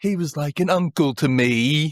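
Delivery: put-on drawn-out, very slow, horrible American accent. Retelling a scene where Mason talks in a horrible American accent. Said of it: "trying to talk with this really horrible American accent".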